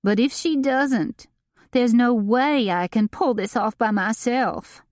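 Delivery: a frantic, put-upon socialite; Delane voiced. A narrator's reading. Delane continuing, read by narrator.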